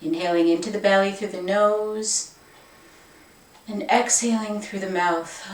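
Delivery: calm, unhurried meditation guide voice; guided meditation. Acted. Yoga teacher guiding viewers into the meditation, calm. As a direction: settle them in gently, no rush.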